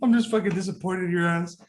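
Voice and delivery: mock disappointed, laughing. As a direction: scold them through a laugh.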